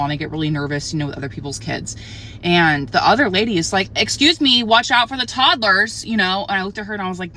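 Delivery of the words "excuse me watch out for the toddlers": sharp call-out. Retold or imitated. Other mom calls out to kids.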